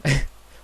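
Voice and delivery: quick burst of laughter; short laugh. Real, not acted. Vlogger owning up to a big nosebleed, short laugh. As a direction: laugh briefly at your own mishap.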